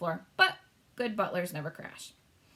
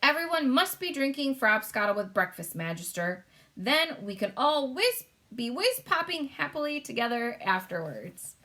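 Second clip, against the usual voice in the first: a giant full of glee; BFG voice; 5 semitones higher than usual. Acted. Giant proposing frobscottle to all, cheerful.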